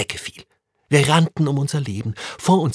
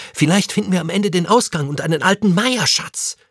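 hopeful and higher, a little louder; 7 semitones higher, 4 dB louder than usual. A narrator's reading. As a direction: dream aloud of treasure. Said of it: "sagte Tim hoffnungsvoll".

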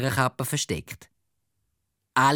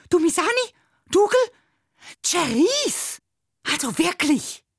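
high, loud exasperated telling-off; scolding teacher; 4 dB louder than usual. Acted. Teacher scolds three chatting pupils, high and loud. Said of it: "schimpft die Drachenlady".

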